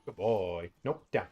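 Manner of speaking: firm, short commands to a dog; brisk trainer voice at the puppy. Real, not acted. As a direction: train the dog with crisp cues.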